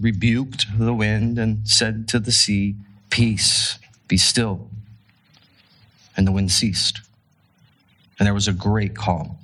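measured reading aloud with long pauses; scripture reading. A narrator's reading. Preacher reading the Gospel to the congregation, measured scripture reading. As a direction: read the passage out phrase by phrase, deliberately.

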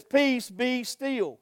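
slow, hushed, unhurried words of Jesus; calm command. Acted. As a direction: still the storm with a gentle command. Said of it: "Jesus calmly gets up".

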